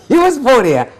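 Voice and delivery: laughing as he says it, hold on a minute; real amused disbelief, laughing through the words. Real, not acted.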